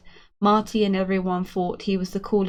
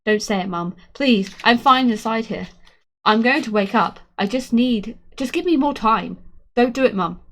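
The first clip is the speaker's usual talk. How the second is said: desperate, tearful pleading; 2 semitones higher, 4 dB louder than usual. Acted. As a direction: beg with rising panic. Coma boy pleading with mother.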